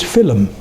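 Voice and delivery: "film" said as two syllables, fill-um; old pronunciation. Shown as a demonstration. Lecturer showing how Shakespeare said it, "film" as fill-um. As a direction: break "film" with an extra vowel before the m. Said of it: "so we know how it was said".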